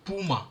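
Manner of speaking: "Puma" with a plain u, like the animal; "Puma" with an open, plain u; African puma. Shown as a demonstration. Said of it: "we say like this".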